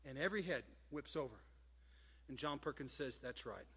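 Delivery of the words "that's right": retold quiet assent. Retold Perkins quietly owning the blame.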